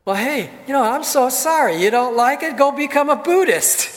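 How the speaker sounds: hammed-up uncaring retort; mock dismissive. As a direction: sneer it off flippantly. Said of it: "I could have said".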